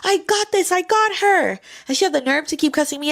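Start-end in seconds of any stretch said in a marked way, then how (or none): 0.0-1.6 high, louder, sure of herself; firm mock order. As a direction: imitate telling your sister you've got this. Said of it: "I was like".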